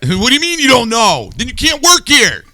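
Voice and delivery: rising outrage at the answer; incredulous. Retold or imitated. Host plays boss firing an unqualified hire, incredulous. Indignant mock interview.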